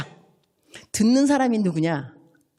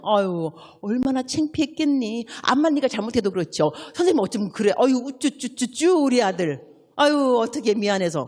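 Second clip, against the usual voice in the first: soothing, coddling tone, slowed; baby-talk cooing to a hurt son; comforting mother; 3 semitones higher than usual. Shown as a demonstration. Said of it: "이렇게 말씀하셔야 됩니다". (속상한 아들을 달래는 다정한 엄마 말투)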